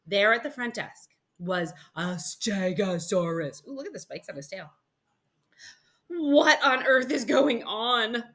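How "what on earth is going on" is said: higher, slow, drawn-out exclamation; mom's bewildered cry. Acted. Mom finding another dinosaur, crying out. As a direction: cry out slowly in disbelief. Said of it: "my mom cried".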